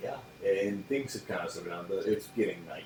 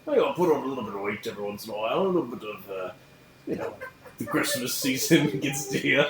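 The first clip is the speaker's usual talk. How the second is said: higher, louder pirate voice, laughing at the end; 6 semitones higher, 5 dB louder than usual. Acted. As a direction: ham up the pirate for the table. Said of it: "the pirate voice".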